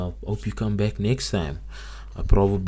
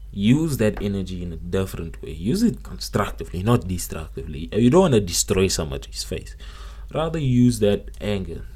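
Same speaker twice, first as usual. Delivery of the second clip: rousing pep talk, louder toward the end; booming motivational speech; 3 dB louder than usual. Acted. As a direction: preach it like a motivational speaker. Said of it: "I don't wanna sound like a motivational speaker".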